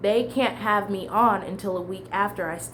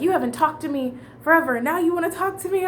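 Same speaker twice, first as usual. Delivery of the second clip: mock indignant boss; 9 semitones higher, 4 dB louder, faster than usual. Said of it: "he was like".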